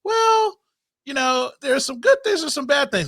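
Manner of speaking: high, wavering-on-the-fence impression; hedging mother. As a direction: imitate a mother gently hedging. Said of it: "her mother was the type of person that was like".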